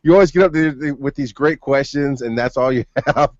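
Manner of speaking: friend teasing. Retold or imitated. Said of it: "one of my friends was like".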